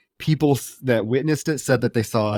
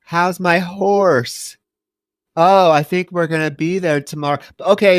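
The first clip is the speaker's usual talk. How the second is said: put-on scared child; 6 semitones higher, 3 dB louder than usual. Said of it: "is terrified".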